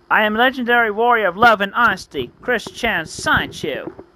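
high grand proclamation, drawing out the name at the end; hammed-up hero's self-announcement; heroic introduction. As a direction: announce yourself like an anime hero. Hero announces own name.

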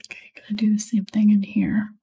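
soft, absorbed near-whisper; hushed murmur while concentrating on the work. Real, not acted. Painter talking through dark leaves as they work, whispering. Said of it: "Sorry, I'm whispering".

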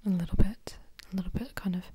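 a hint of a posh British accent, lightly voiced. Shown as a demonstration. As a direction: slip briefly into posh British, half-voiced. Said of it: "when I'm going posh, I kind of go husky and deep".

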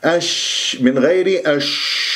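long hushing "shhh" in أش; slow demo of أش with prolonged sh; spreading shin. Shown as a demonstration. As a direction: hold the sh of أش, letting the air spread in the mouth. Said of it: "صفة التفشي خاصة بحرف الشين".

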